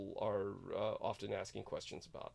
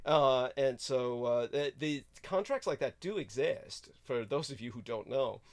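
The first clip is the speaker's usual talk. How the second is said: loud exasperated rant; 2 semitones higher, 5 dB louder than usual. Acted. Loud persona rant continues.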